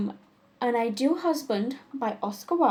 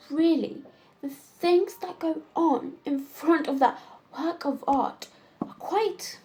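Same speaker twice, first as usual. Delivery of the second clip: lightly acted Wildean lady, measured with dramatic pauses; exasperated society woman, theatrical. Woman complaining over dinner about her lover's dull proposals, theatrical exasperation. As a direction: complain wittily, lingering on the emphatic words.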